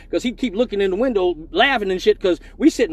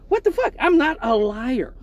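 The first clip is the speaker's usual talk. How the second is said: indignant; 5 semitones higher than usual. Real, not acted. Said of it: "indignant aside".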